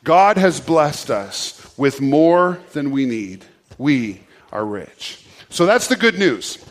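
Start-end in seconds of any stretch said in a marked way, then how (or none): 0.0-5.2 slow group recitation. Shown as a demonstration. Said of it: "say that with me".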